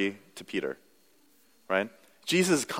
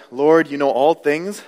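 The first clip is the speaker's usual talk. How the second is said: louder, slow "Lord, you know all things"; earnest Peter plea; 4 semitones higher, 6 dB louder, slower than usual. Acted. Pastor voicing hurt Peter answering Jesus, louder and pleading.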